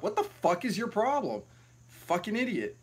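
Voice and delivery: retold indignant outburst, pitched high; mock exasperation. Traveler retelling a spat with bag checker, exasperated. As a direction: act out exasperation without raising the volume.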